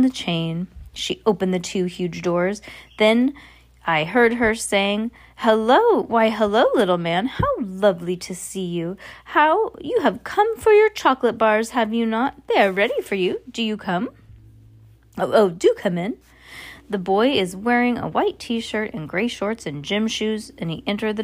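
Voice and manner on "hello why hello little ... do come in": sweet fake welcome. Witch sweetly greeting boy.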